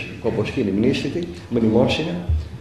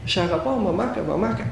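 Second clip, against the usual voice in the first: lightly voiced toddler, pitched up a little; retold delighted child; 4 semitones higher, 3 dB quieter than usual. Small boy joyfully calls his dead mother at her grave, retold delight. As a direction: imitate a happy child calling lovingly, without shouting. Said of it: "χόρευε και γέλαγε".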